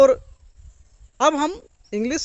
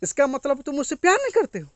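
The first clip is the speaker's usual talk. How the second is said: lightly voiced complaining girlfriend; a hint of a hurt girlfriend; 5 semitones higher than usual. Girlfriend complaining to boyfriend, lightly hurt tone. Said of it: "कोई girlfriend को बोलता है".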